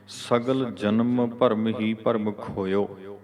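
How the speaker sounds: slow, drawn-out reading up to ਖੋਇਓ; deliberate recitation stopping at ਖੋਇਓ; pause after ਖੋਇਓ. Shown as a demonstration. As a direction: stretch each word and rest on ਖੋਇਓ. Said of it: "ਵਿਸ਼ਰਾਮ".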